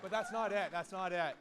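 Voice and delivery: loud, punchy build-up; emphatic. Real, not acted. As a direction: hit it hard to tease the twist. Speech, building to twist.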